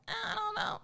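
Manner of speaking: high, unsure little voice; doubtful. Retold or imitated. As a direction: voice the nagging doubt. Trauma voiced doubting intuition.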